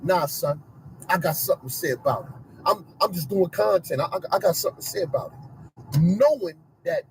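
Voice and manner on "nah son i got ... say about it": low, swaggering tough-guy voice, lightly done; mock tough gangster. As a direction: play the wannabe gangster, a touch of swagger. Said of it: "he think he is so gangster and tough".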